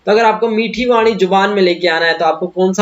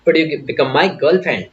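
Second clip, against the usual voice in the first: slow polite ask; 3 semitones lower, much slower than usual. Shown as a demonstration. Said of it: "polite यानी एकदम polite हो जाओ".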